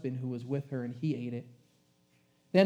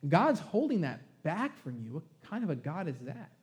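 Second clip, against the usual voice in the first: sneaky snake tempter; 3 semitones higher than usual. Acted. Preacher voicing the tempting snake.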